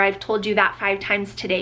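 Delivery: plain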